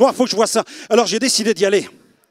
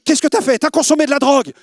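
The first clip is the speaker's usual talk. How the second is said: alarmed mother; 6 semitones higher, 4 dB louder than usual. Retold or imitated.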